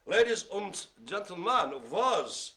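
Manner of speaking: lightly put-on German accent; mock German accent. Host starting the last five recap, mock German accent. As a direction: slip briefly into German-accented English. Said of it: "I don't do it in German accent".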